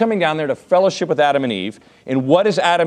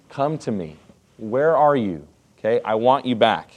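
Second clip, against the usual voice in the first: gentle calling; 3 semitones lower than usual. Retold or imitated. Pastor voicing God calling gently to Adam. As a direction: call them back tenderly. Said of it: "the relational aspect of God".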